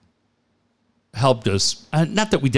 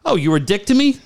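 laughing retelling; 3 semitones higher than usual. Retold or imitated. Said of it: "I go".

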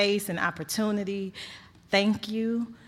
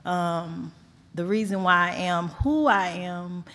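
holding back tears. Real, not acted. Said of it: "I'm trying not to cry".

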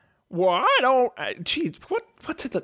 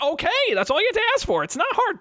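higher and fast, fed up; exasperated genie; 11 semitones higher, faster than usual. Acted. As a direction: rattle it off like an annoyed genie. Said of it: "the genie just kinda stares".

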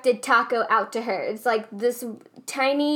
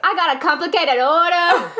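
laughing exasperation; 4 semitones higher, 4 dB louder than usual. Retold or imitated. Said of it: "I was like".

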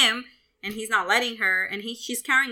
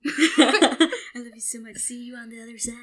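playing the doomed mom, laughing; laughing mock farewell. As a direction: giggle through a fake sweet farewell. Playing the mother in a joke.

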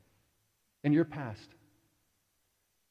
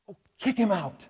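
Charlie's catchphrase; 5 semitones higher, 4 dB louder than usual. Retold or imitated. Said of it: "I want to talk like that".

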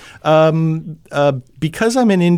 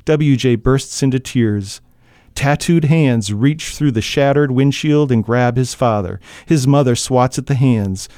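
steady, measured reading of a tense scene; even storyteller voice over a car crash; story narration. A narrator's reading. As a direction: read it like an audiobook narrator drawing listeners in. Narration continues.

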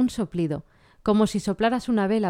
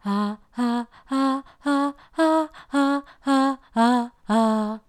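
airy staccato; 6 semitones higher, much slower than usual. Shown as a demonstration. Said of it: "te suena airosa".

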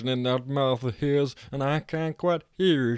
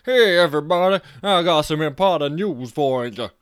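much louder, higher call out the window; shouting; 5 semitones higher, 9 dB louder than usual. A narrator's reading. Jack shouting from the window to the guests, loud. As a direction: bellow to the garden party. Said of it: "yanked it open and shouted".

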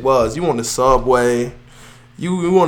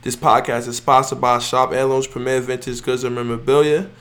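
stuffy, congested voice; reading while stuffed up from a cold; sick voice. Real, not acted. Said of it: "So, pardon how I sound".

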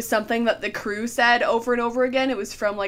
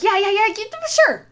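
dismissive; 10 semitones higher than usual. Retold or imitated. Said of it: "And he's like".

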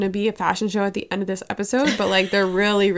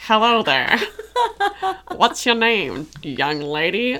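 put-on old-timey gentleman. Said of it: "And he's like".

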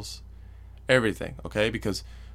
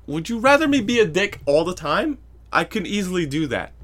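raised, higher exasperated challenge; retold irritated retort; 7 semitones higher, 5 dB louder than usual. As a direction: throw it back at her, voice pushed up. Retelling his irritated retort to ex.

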